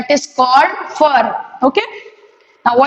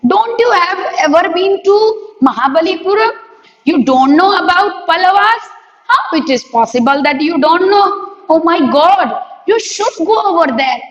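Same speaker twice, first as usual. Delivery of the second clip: incredulous surprise; 3 semitones higher than usual. Acted. Character amazed someone never visited.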